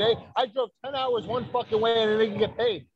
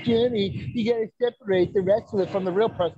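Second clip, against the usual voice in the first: imitating his mother; 2 semitones higher than usual. Son quoting his mother telling him to separate, lightly voiced mom impression. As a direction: put on his mother's voice as she lectures him. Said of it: "That's exactly how she talks".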